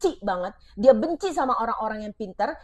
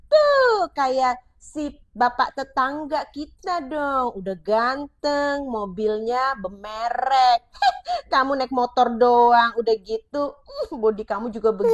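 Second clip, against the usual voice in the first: a wife comparing her husband to the neighbour, mocking; 2 semitones higher, 4 dB louder, slower than usual. Shown as a demonstration. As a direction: belittle your husband with a sneer. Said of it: "suami dibilang gini sama istri".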